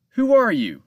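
loud, high demand. A narrator's reading. Captain waking to a stranger, loud and demanding. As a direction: fire the question at him. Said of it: "Captain Joe demanded".

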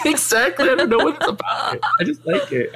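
high, giggly answer; laughing. Real, not acted. Streamer admitting she loves accents, laughing. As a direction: talk up high through a laugh.

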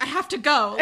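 loud retold exit line, laughing; amused mock urgency. Peter excuses himself on hearing of Darcy, laughing mimicry. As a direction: imitate a hasty exit through laughter.

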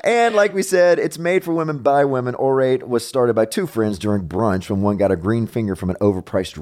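upbeat opening, then easy sponsor pitch; chatty host-read commercial; podcast ad read. Acted. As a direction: read sponsor copy to the listeners.

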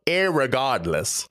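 slow mock-British "irregardless"; a light, slowly savored British accent. Shown as a demonstration. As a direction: put on a British accent, drawing the word out. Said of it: "have to say in a British accent".

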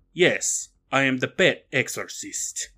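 lightly put-on German-Sylvanian accent; mock Germanic accent. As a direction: answer in a faint made-up Germanic accent. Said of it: "German Sylvanian".

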